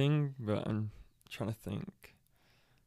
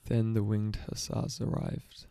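slowly mouthed; slower than usual. Shown as a demonstration. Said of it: "one more time".

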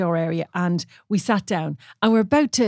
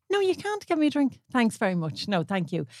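firm refusal; 3 semitones higher, 4 dB quieter than usual. Retold or imitated. Refusing a stranger's drink at the bar, curt polite refusal. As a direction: shut him down politely but firmly.

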